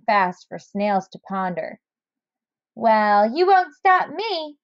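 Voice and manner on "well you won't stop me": Snail's voice, higher. Acted. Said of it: "said Snail to the thing".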